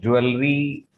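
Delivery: ज्वेलरी said as "joo-el-ree"; common mispronunciation. Shown as a demonstration. Teacher quoting how many people say it, mispronounced. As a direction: say ज्वेलरी with a clear "el" in the middle. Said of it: "pronounce करते हैं".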